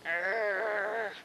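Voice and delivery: growly imitated sheep call; sheep noise. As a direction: make the sheep sound for the kid. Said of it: "He's going".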